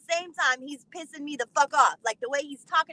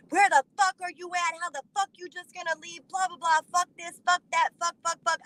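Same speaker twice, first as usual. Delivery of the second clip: imitating an angry phone rant, higher-pitched; mock yelling; 4 semitones higher than usual. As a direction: rattle off his yelled tirade, half-hearted. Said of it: "He's yelling at me".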